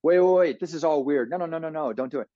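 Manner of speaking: rising alarm, then hushed no; alarmed brain voice. Retold or imitated. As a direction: play the panicking inner alarm. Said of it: "alarm signals that say".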